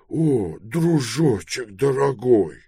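high, slow, moved exclamation; tearful babble. A narrator's reading. Pelorat thanks his dear friend, tearful babble. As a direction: gush it in a high voice, close to tears. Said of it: "пролепетал Пилород, и у него слёзы".

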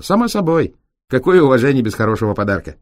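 high, quick grinning gypsy; gypsy driver voice. Acted. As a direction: answer with a sly grin. Цыган улыбнулся. (с усмешкой, голосом цыгана)

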